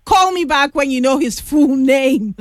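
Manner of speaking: laughing through the words. Real, not acted. Laughing while teasing caller.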